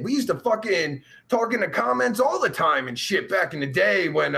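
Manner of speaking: normal talking voice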